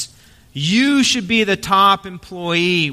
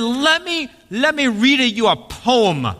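a hint of a shy, proud old baker; eager baker; 4 semitones higher than usual. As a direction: start high and earnest, like a proud amateur poet. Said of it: "He said, he said".

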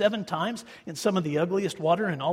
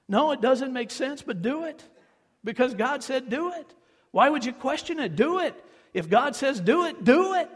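rising higher, more insistent each do it; fervent urging; 6 semitones higher than usual. Real, not acted. Preacher urging the congregation to obey, rising intensity. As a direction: press harder each time.

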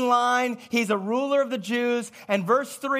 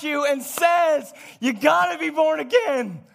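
full-force preaching; 4 semitones higher than usual. Acted. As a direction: press the point on the congregation.

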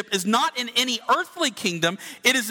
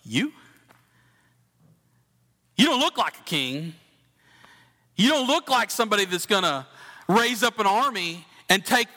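condescending. Retold or imitated. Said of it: "meant to be read in a condescending tone".

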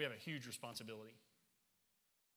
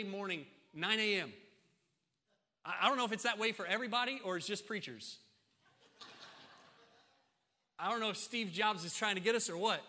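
loud, raised pulpit complaint; animated preaching; 7 semitones higher, 7 dB louder than usual. Real, not acted. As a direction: tell the congregation with raised energy. Preaches at full force.

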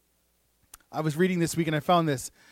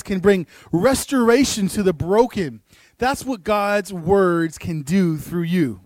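slow, swelling declaration of what God's words can do; building preacher cadence. Real, not acted. Preacher to congregation on the power of God's words, swelling declaration.

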